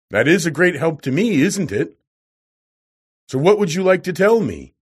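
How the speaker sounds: lightly voiced domineering scientist; overbearing professor. A narrator's reading. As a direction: press the visitor loudly, pitch lifted. Roaring professor mocks the visitor.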